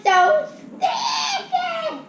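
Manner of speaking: slow, laughing cry about sticky hands; laughing whine. Real, not acted. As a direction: laugh through the complaint. Laughing complaint about sticky slime.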